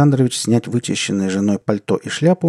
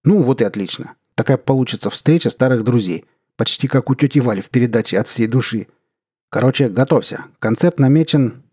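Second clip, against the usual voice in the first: hearty official; 3 semitones higher, 3 dB louder than usual. Acted. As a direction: play the back-slapping boss. Deputy minister continues.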